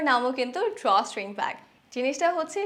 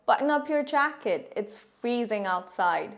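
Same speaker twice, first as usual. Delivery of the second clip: slow model sentence; much slower than usual. Shown as a demonstration. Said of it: "বন্ধুকে বলতে চাচ্ছেন".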